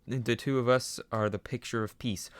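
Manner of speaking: confident cartoon skeleton voice; cheerful boastful Papyrus. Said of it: "Papyrus voice".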